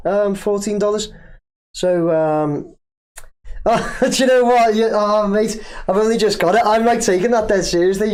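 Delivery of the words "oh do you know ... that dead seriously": the penny drops mid-sentence; sudden realisation. Real, not acted. Suddenly getting the Salah joke.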